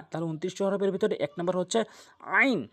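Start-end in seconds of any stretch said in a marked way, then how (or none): 2.4-2.6 "আইন" begun with a pharyngeal ain; proper Arabic ain. Shown as a demonstration. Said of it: "আইন বলতে হবে". ("আইন" গলার মাঝখান থেকে আরবি উচ্চারণে)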